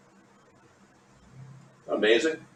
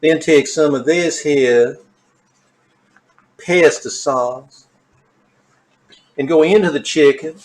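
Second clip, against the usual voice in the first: impersonating that woman; 2 semitones higher than usual. Retold or imitated. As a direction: purr the cooking steps like an eerie villain. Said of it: "I just love impersonating that woman".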